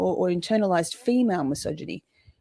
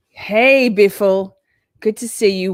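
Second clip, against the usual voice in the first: mock friendly greeting; 7 dB louder, slower than usual. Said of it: "it's something like this".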